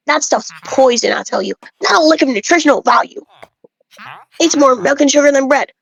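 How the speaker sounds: a lightly voiced village know-it-all, preachy about grain; bread-obsessed villager. Lightly voiced villager lecturing the player about bread, smug. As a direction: play a self-important bread snob lecturing a traveler.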